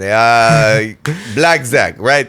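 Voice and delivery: lightly voiced Greek grandpa; a grandpa griping about blackjack, lightly Greek; Papu's Greek accent. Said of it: "listening to Papu".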